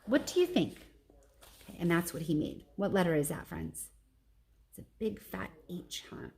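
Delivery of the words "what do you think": Ivan asking. Acted. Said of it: "I stand back".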